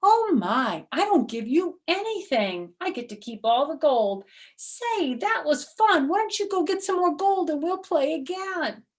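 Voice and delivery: high, loud, delighted crowing; a winner who can't hide his glee; gleeful Herschel. Acted. Herschel delighted after winning all.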